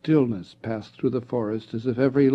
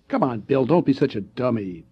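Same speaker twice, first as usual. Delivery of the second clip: scornful; 4 dB louder than usual. Acted. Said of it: "Ted said scornfully".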